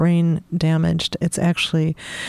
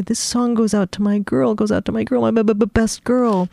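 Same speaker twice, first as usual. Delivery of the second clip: Mikey dedicating a song; 4 semitones higher than usual. Acted. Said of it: "No longer would Mikey say".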